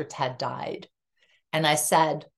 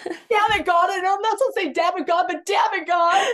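much higher, louder laughing-crying shout; exasperated outburst; 14 semitones higher, 5 dB louder than usual. Retold or imitated. Widow cursing God who laughed at her, laughing-crying shout. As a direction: yell it half laughing, half crying. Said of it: "And I'm like".

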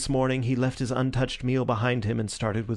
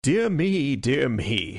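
suppressed laughter; 2 semitones higher, 3 dB louder, much slower than usual. A narrator's reading. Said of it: "restrain a convulsive attack of laughter".

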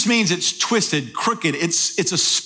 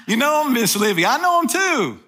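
playful high aside; 5 semitones higher than usual. Real, not acted. Playful aside to Miss Livy.

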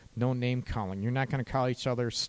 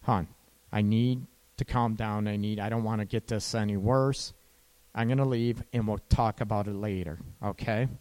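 calm request; 4 semitones lower than usual. Shown as a demonstration. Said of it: "So can you say that?".

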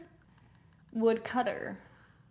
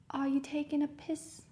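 put-on a first shaky go at an Irish accent; 4 semitones higher, 4 dB quieter than usual. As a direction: say it like a Dubliner, lightly. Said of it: "I can't do an Irish accent, but I will try".

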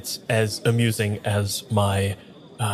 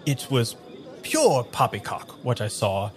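put-on slipping into a southern accent. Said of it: "close to hitting my southern accent".

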